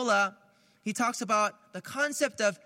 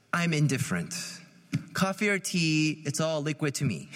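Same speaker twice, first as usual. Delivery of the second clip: passive indifference; 5 semitones lower than usual. Shown as a demonstration. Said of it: "passive indifference".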